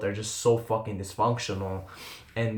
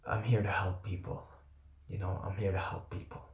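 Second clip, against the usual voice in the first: tearful vow; 3 semitones lower, 8 dB quieter than usual. Retold or imitated. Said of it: "I'm wiping the tears".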